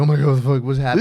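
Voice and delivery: loud, high panicked shout; shocked outburst. Retold or imitated. Spat-on kid reacting to the bully, loud shocked yell. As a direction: yell it out in disbelief. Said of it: "And I was like".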